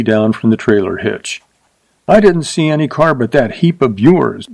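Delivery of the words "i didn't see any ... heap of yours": higher, pointed snap at the cowboy; a touch of scorn in a raised voice; sharp retort. Acted. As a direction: cut him off sharply, pitched up. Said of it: "she said sharply".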